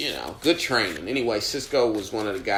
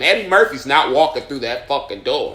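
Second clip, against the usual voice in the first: higher, louder angry retelling; heated retort; 4 semitones higher, 6 dB louder than usual. Retold or imitated. Comic retelling his angry retort to the owner. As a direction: slam the line back at him. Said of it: "I told him verbatim".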